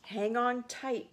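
hammed-up storybook shout; yelled. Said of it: "Possum yelled".

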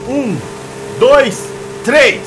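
loud rising count to three; shouted countdown; race countdown. Real, not acted. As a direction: call the start of the race.

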